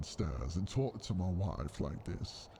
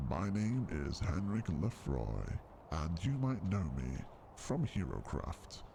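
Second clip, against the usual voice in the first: lightly voiced trailer narration; a hint of trailer voiceover; trailer narrator voice. Shown as a demonstration. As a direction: announce it like a game trailer. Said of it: "the voice I'm gonna be using in the trailer".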